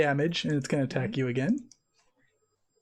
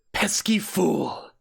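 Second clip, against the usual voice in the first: slow, contemptuous hiss of a monster; sneering monster; much slower than usual. Acted. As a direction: spit it out slowly with scorn.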